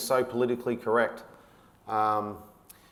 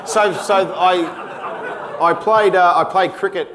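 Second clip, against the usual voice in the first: loud laughing boast, high and slow; 6 semitones higher, 9 dB louder, much slower than usual. Real, not acted. Laughing to the interviewer about being awesome at footy. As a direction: crack up at your own brag.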